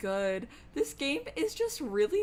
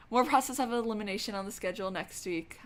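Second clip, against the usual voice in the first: ordinary talk, nothing marked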